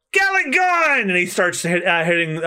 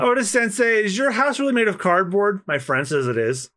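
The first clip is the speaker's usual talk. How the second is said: put-on young fan voice; 4 semitones higher than usual. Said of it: "I'm the fanboy or girl".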